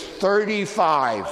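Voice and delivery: slow, loud, emphatic figure; drawn-out shout. Retold or imitated. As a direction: bellow the number slowly. Salesman names his top discount.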